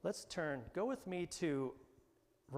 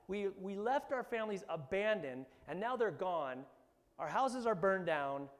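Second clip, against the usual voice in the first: higher, louder accusing mob; angry men accusing; 6 semitones higher, 3 dB louder than usual. Retold or imitated. David's men blaming David over the burned town, angry. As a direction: blame him, furious. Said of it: "stand up with their rocks and go".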